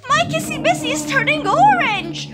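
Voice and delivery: high, loud laughing alarm; shocked squeal. Real, not acted. Discovers her statue turned orange.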